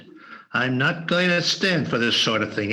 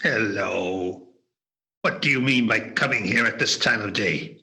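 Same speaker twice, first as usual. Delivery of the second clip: lower, mock-gruff old miser; feigned growl; 5 semitones lower than usual. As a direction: pretend to be cross. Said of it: "Scrooge growled in his accustomed voice".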